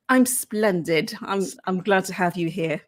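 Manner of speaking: playful British pleasantries; reply in a mannered British accent; lightly put-on British politeness. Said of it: "you do such a good British accent".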